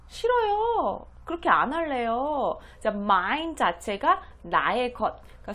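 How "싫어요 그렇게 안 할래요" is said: put-on high child voice refusing; sulky child refusal. Teacher voicing a child who won't share her toys, high whiny refusal. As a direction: whine no like a stubborn little kid.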